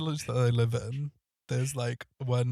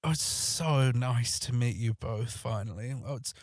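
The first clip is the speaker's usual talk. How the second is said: gushing flirty man; slower than usual. Retold or imitated. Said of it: "he goes".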